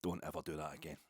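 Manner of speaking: softly retold warning; paternal lesson. Older fan teaching a young supporter loyalty, paternal warning. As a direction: quietly lay down the rule, without anger. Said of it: "kind of paternal lesson".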